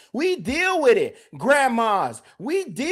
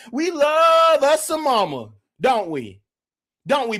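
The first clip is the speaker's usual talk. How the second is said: ordinary delivery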